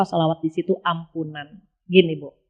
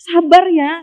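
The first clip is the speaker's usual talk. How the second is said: higher, louder coaxing; soothing encouragement; 7 semitones higher, 4 dB louder, slower than usual. Retold or imitated. God urging patience, higher coaxing. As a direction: urge patience brightly.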